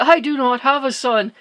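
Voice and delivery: mild mock roar of an angry god; retold roar. Shiva answers the child guarding the house, mild retold roar. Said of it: "Shiva roars back that".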